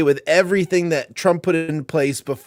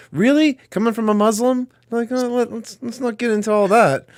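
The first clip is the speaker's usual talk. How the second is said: mock disbelief; 6 semitones higher than usual. Mocking retort to a comment.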